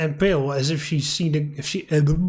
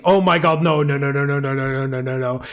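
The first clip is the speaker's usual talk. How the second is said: dread; 3 semitones lower than usual. Real, not acted. Player's dread at pink figure.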